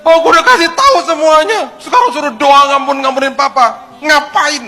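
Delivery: very high, loud enraged yelling, acted out; ngamuk. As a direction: explode at the pastor in a shrieking protest. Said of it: "Wah, ngamuk". (menirukan orang mengamuk, teriak melengking)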